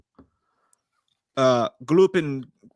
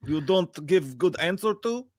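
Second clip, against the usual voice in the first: mock Russian accent; 2 semitones higher than usual. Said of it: "talk in Russian accents".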